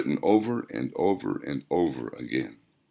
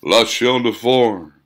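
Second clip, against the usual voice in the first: distant echo; 4 semitones higher, 7 dB louder, slower than usual. A narrator's reading. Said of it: "distant echoes of words".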